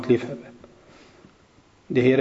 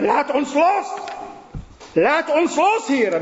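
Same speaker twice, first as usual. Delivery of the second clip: pleading angels; 12 semitones higher, slower than usual. Acted.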